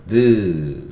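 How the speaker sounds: 느 as a drawn-out voiced d sound, 드; teacher sounding out 느 slowly as 드; letter sound demonstration. Shown as a demonstration. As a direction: hold the D sound 느 long, like deu. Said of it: "D는 무슨 소리 난다고요?".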